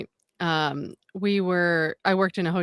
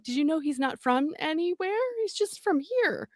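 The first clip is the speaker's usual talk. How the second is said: astonished gossip; 9 semitones higher than usual. Retold or imitated. Worker runs to coworkers with shocking news, astonished. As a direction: tell it like a shocking secret.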